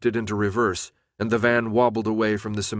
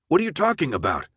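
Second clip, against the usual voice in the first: higher, quick baffled question; 6 semitones higher, faster than usual. A narrator's reading. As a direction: demand an explanation, confused. Startled driver questions yelled order.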